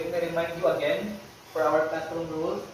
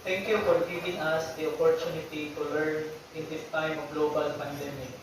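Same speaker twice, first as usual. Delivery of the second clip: measured, even-toned classroom prayer; 3 semitones lower, 5 dB quieter than usual. Real, not acted. Teacher leading the class in opening prayer, solemn prayer delivery. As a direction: lead the prayer evenly, pausing between petitions.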